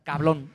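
"Cablón" with an L in place of the R; mock Puerto Rican "Cablón"; R swapped for L. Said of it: "dice cabrón, no cablón".

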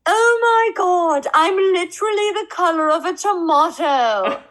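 high, loud giddy squeal of embarrassment; flustered laughing gush. Retold or imitated. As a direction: gush it out like a star caught blushing. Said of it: "she turns around and she goes".

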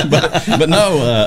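laughing through the words; can't stop chuckling; real laughter breaking in. Real, not acted. Laughing at the joke about a singer.

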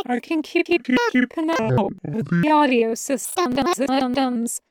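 stuttering, repeating syllables like a broken computer; glitching AI voice. Acted. Jarvis warns Taco, voice glitching and stuttering. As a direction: skip and repeat like corrupted audio. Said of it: "Jarvis keeps talking".

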